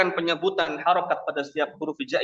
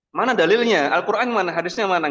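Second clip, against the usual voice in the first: imagined questioner; 4 semitones higher, faster than usual. Retold or imitated. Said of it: "mungkin ada yang bertanya begitu".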